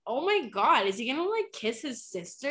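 high, shocked disbelief; shocked gasp. Retold or imitated. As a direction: gasp it out in alarm. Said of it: "me and my friend were like".

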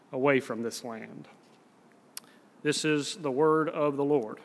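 measured, solemn public Bible reading; scripture reading. Acted. Preacher reads Amos to the congregation, measured scripture reading.

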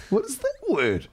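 high-pitched Scottish lilt; Scottish accent. Shown as a demonstration. Asked to do the accent, reading the label in Scottish. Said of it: "can you do your Scottish accent".

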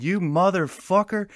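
high, loud, drawn-out accusation; retold outrage. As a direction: act out cursing your buddy, slow and high. Retold quarrel over the chaw spit.

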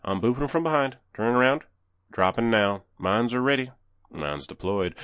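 polite down-home Southern comms chatter; southern boy. Retold or imitated. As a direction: imitate a down-home Southern teammate. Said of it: "down home southern boy".

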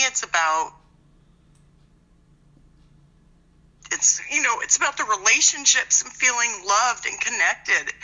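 tearful, voice wobbling; blubbering. Real, not acted. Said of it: "I'm sorry, I'm crying".

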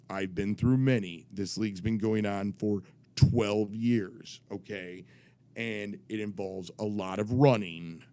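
lightly imitated rule-reciting official; measured, punched key words, mock gravity; authoritative commissioner. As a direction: lay down the rules as if deadly serious. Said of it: "I'm doing his voice".

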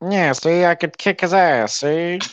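put-on old-Hollywood transatlantic gangster voice; 1940s film tough guy with a transatlantic accent. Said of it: "This is a transatlantic accent".

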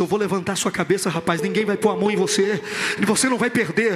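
fala firme, mais grave e corrida; pregação enérgica. Acted. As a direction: declarar uma promessa com força. (pregação enfática em tom grave)

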